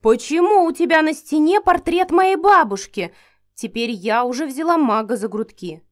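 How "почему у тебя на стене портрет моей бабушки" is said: shocked. A narrator's reading. Heroine shocked by grandmother portrait.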